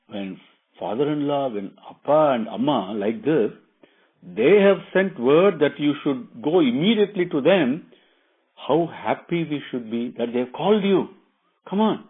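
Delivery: lightly voiced eager wife; urging wife Sita. Wife sending Rama to his parents, earnest urging. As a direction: urge him on, ending high on the prompt.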